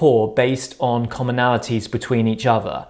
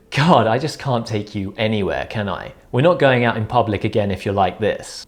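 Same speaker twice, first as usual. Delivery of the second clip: lightly deadpan mock exasperation, dropping lower; straight-faced teasing; 3 semitones lower than usual. Shown as a demonstration. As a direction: tease with a straight face. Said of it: "Saying things with a straight face".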